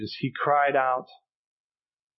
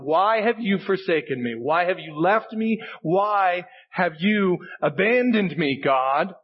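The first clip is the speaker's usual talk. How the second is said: anguished cry; 3 semitones higher than usual. Retold or imitated. Preacher voicing Jesus on the cross, anguished cry. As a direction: cry it up to heaven as the forsaken man. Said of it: "This man cried out".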